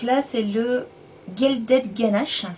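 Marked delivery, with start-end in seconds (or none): 1.4-2.5 "Gilded Ganache" said slowly with a French accent; French speaker saying "Gilded Ganache" slowly; English name, French accent. Real, not acted. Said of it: "désolée pour mon accent".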